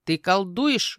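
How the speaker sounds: loud raven croak; menacing caw. Acted. Raven catching the girl at magic, menacing caw. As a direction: caw it as a stern accusation. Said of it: "грозно каркнул Ротгар".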